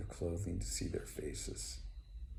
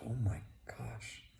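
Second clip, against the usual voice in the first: soft, slightly awed inner thought; hushed awe; 3 semitones higher, 5 dB quieter than usual. Acted. Old man thinking on seeing her beauty, quietly awestruck. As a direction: think it aloud softly, lingering on the first words.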